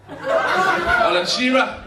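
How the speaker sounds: slow deadpan celebrity impression; Alan Shearer impression. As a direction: say the name slowly, deadpan. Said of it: "comedy impression portion".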